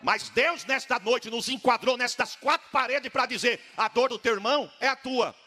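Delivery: full-force shout over the music; preacher crying out to the church over music, shouting; shouted preaching. Real, not acted.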